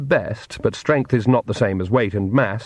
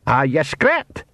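small Scottish pixie voice; higher Scots pixie; 4 semitones higher, slower than usual. Acted. Pixie man speaks.

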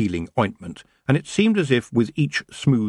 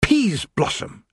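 high, slow, venomous name; angry elf, high and deliberate; hissed anger; 11 semitones higher, much slower than usual. A narrator's reading. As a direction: draw the name out with spite. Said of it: "she hissed".

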